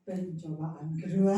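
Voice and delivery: slow, drawn-out words tipping into laughter; amused, stretched out into a laugh. Real, not acted. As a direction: let the laugh take over the last word. Laughs while telling own joke.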